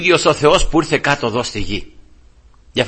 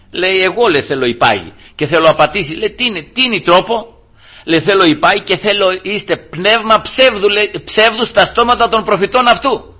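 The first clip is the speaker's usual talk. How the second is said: raised, emphatic scripture retelling; preaching; 6 semitones higher than usual. Acted. Preacher retells the Lord's council to the congregation, forceful preaching. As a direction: preach the story with rising force.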